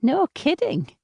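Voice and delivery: high nasal reply; grating, nasal. A narrator's reading. Seatmate reacting to the American's boast, grating and nasal. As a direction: pitch it up, grating and chatty. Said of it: "She has a voice that grates, almost nasal".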